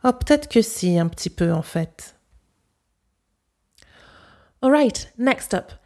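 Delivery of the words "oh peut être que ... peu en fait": Parisian French with swallowed silent E's; Parisian accent. Shown as a demonstration. Host gives her version of the third example, Parisian accent. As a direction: show how a Parisian accent shortens it. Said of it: "And now my accent".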